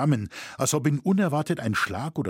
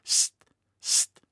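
shushing. A narrator's reading. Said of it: "rief mit abwehrender Gebärde".

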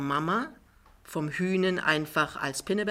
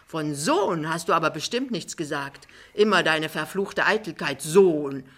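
lightly voiced, blustering denial; protesting Jachmann; 2 semitones higher, 4 dB louder than usual. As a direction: contradict her firmly. Jachmann widerspricht Frau Pinneberg. (energisch widersprechend, leicht gespielt)

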